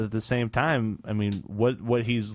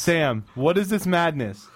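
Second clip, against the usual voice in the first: mock outrage; 5 semitones higher, slower than usual. Real, not acted. Teasing cohost on YouTube.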